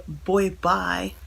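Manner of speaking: badly put-on accent on "Boy Bye"; half-hearted accent, not quite landing; attempted accent. Shown as a demonstration. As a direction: have a clumsy go at an accent. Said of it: "tried to say it in an accent".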